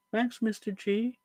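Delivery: high, slow mock voice; imitating a guest. Slow high-pitched voice imitating a guest's thank-you. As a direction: squeak it out slowly, high-pitched. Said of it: "which he goes".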